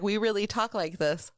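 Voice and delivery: mock Baltimore "earn, earn" with a laugh; laughing Baltimore accent. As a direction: chant "earn" like a proud Baltimore local. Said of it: "He's like".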